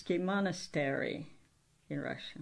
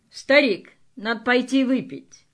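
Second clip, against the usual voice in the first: 1 hearty call; 4 semitones higher, 6 dB louder than usual. Acted. Acted play line, invitation.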